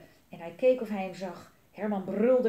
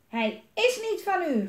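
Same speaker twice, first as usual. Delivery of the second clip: high-pitched protest, only mildly louder; mild yell; 9 semitones higher, 3 dB louder than usual. A narrator's reading. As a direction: argue back in a raised voice. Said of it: "gilde Elise".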